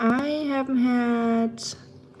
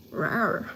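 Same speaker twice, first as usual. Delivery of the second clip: half-hearted little "rawr"; mock beast roar; 2 semitones lower, 4 dB quieter than usual. Streamer unleashing the beast for chat, mock roar. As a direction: play at roaring, without much force.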